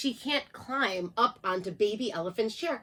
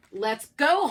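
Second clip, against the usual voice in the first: honking; 3 semitones higher, 4 dB louder than usual. Acted. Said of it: "honked loose Goosey Lucy".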